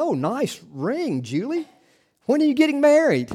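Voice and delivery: a hint of a cheery doctor; doctor's voice. Doctor voiced in retold joke.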